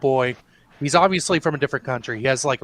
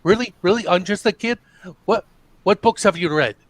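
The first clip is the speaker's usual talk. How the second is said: higher, incredulous mock comeback; retold challenge; 4 semitones higher, 3 dB louder than usual. Retelling the boy challenging the girls, mock indignant. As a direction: imitate a boy going off on them. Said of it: "he basically goes off on them".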